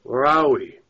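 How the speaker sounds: groaning, just woken up; groggy groan. A narrator's reading. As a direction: groan it out half asleep.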